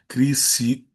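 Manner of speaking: Criciúma slowly, with a long Ú; Criciúma drawn out on its stressed U. Shown as a demonstration. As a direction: separate and stretch the Ú in "Criciúma". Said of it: "hiato no U".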